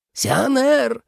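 a father crying out his son's name in relief; exclaiming. A narrator's reading. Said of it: "воскликнул Джу старший". (радостный возглас, высоко)

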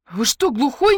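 loud, high, losing patience; exasperated outburst. Acted. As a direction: snap at him, fed up. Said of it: "не выдержала я". (возмущённый выкрик)

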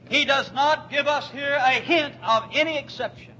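emphatic pulpit shout. Acted. Preacher shouting the point.

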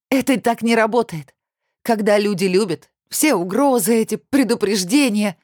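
high, indignant retort. A narrator's reading. Olya retorts to Kirill, high indignant voice. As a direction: throw it back at him. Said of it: "мотнула головой с возмущением".

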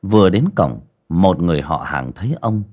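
measured ghost-story narrator with dramatic pauses; storyteller setting a grim village scene; story narration. A narrator's reading. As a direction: narrate it phrase by phrase, pausing between.

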